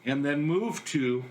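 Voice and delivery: measured reading, pausing after each phrase; understated poem recital; poetry reading. Acted. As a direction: read your own poem line by line. Reads own poem aloud.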